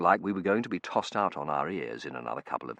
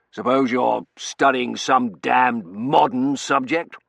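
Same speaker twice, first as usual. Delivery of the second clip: gruff colonel voice; 7 semitones higher, 11 dB louder, slower than usual. Acted. Colonel character voice.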